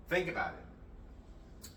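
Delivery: whispered slowly; whispered, slow aside to viewers. Real, not acted. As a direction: breathe it out like a secret. Closing thought to viewers.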